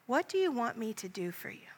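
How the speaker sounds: whispered, tender question; great compassion. Acted. Jesus holding the beggar's hands, asking with compassion. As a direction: ask it gently with compassion. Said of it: "with great compassion in his voice".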